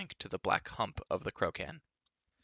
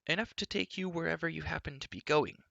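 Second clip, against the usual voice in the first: much higher, tart snap; snapping retort; 8 semitones higher than usual. A narrator's reading. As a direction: bite the words off. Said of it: "snapped Elenwy".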